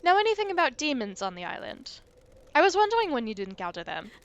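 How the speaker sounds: lightly put-on French accent; a mild French lilt as the ghost; a hint of a French accent. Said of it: "stuck in a French accent".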